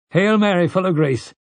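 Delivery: high-pitched voice reciting a prayer; praying villager. A narrator's reading. Villager praying at the town meeting, high recited prayer. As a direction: recite it high from among the crowd. Someone in crowd starts praying aloud.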